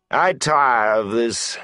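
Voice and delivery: slow, bored menace; weary announcement. A narrator's reading. Goad loses patience with the boys, slow and cold. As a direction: done playing nice. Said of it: "Goad announced".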